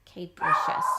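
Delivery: "capricious" as "CAPE-rish-us"; long A. Shown as a demonstration. Teacher trying the long A sound, word blended. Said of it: "the sound long A".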